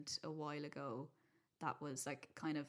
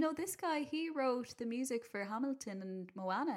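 parent voice; 7 semitones higher than usual. Retold or imitated. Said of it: "they were like".

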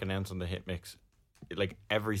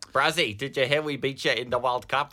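mock southern-hemisphere accent; attempted New Zealand accent; 3 semitones higher than usual. Co-host ribbing over the World Cup, mock New Zealand accent. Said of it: "Can you do a New Zealand accent?".

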